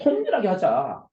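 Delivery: 통렬하게 drawn out slowly with emphasis; forceful slogan. Shown as a demonstration. Lecturer answering the room's slogan, emphatically drawn out. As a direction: stretch 통렬하게 firmly as a rallying call.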